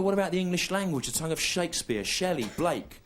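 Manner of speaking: a touch of a proud schoolboy reciting poets; mock patriotic schoolmate. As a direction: classmate urging national pride, lightly mocked. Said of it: "And they go".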